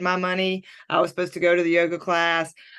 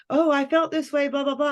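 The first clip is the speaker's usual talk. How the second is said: mock whiny friend; 7 semitones higher than usual. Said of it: "if you're like".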